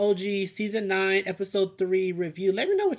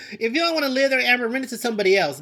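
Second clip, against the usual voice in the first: heated advice; 6 semitones higher, 7 dB louder, faster than usual. Real, not acted.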